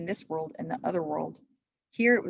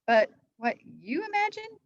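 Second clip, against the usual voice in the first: smiling; 13 semitones higher, 3 dB louder than usual. A narrator's reading.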